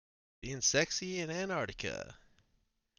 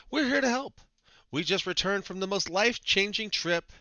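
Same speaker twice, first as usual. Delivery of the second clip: mock blogger voice; 7 semitones higher, 4 dB louder than usual. Mocking travel bloggers' text.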